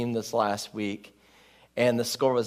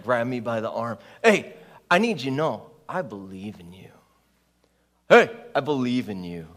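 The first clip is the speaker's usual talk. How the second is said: earnest encouragement; 3 semitones lower than usual. Retold or imitated. Teammate grabbing Neil's arm to encourage him. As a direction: hold his arm and mean it.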